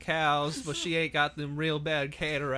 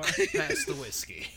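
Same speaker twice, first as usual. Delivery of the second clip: put-on very high, slow old-timer voice; creaky old coot wanting whiskey; old prospector; slower than usual.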